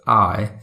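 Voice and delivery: "I" dropped down at the end; sudden drop. Shown as a demonstration. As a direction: let "I" plunge in British style. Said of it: "dropping it down suddenly".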